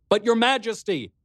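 high call across a distance. Acted. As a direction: call back to the king. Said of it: "I called to him".

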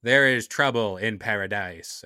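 bad Jamaican accent; lightly put-on Jamaican accent; Kofi Kingston Jamaican accent. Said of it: "Is that a bad Jamaican accent?".

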